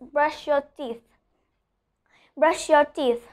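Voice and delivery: "teeth" ending in unvoiced th; voiceless TH. Shown as a demonstration. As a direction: end "teeth" on breath only, no voice. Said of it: "the voiceless one".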